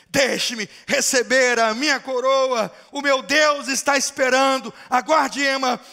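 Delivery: a dying father answering his daughter at full voice; triumphant dying father. Acted. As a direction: cry out of a coronation day. Dying father refuses daughter's plea.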